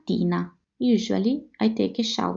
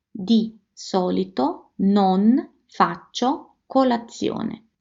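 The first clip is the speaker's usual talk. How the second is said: slow repeat-after-me; slower than usual. Shown as a demonstration. Teacher inviting learners to say it together, slowly. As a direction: Di solito non faccio colazione, slow and clear. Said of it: "say it with me".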